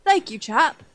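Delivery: hammed-up posh British thank-you; a light put-on British toff; a mild mock British accent. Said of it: "Do they have to be like".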